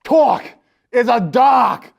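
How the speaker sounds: booming dramatic boast. Acted. Character describing his dark land.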